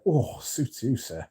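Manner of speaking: a light mock of the Fast Show tailors' "suits you, sir"; Fast Show catchphrase. Quoting the Fast Show to the chat, lightly mock tailor voice. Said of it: "Where they're like".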